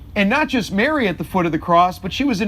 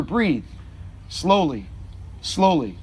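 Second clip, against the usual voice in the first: gently; 2 semitones lower, 4 dB quieter, slower than usual. Retold or imitated. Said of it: "him saying to her".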